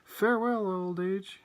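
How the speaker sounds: high, loud proclamation; lifted voice, loud at first; triumphant cry. A narrator's reading. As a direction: call out a grand farewell. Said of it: "cried Grandma Georgina".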